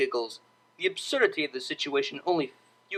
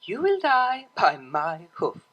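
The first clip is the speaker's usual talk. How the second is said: hissed; 4 semitones higher, slower than usual. A narrator's reading. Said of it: "the cellist hissed back".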